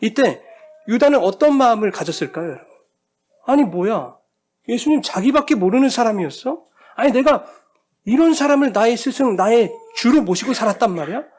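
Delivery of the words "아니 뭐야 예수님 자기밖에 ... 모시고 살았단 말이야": higher, louder indignant outburst; betrayed, as if he can't believe it; preacher voicing Judas's bitter disappointment; disappointed outrage. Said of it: "이 실망과 후회가 막 밀려오지".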